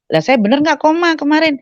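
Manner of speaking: high-pitched retold question of disbelief; retold disbelieving question. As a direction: ask the nurse in high-voiced disbelief. Startled patient questions the nurse. (bertanya tak percaya dengan nada tinggi)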